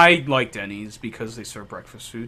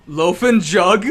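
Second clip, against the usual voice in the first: slow, higher, louder disbelieving question; incredulous; 4 semitones higher, 6 dB louder, slower than usual. Real, not acted. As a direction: say it like you can't believe the name. Disbelief at odd store name.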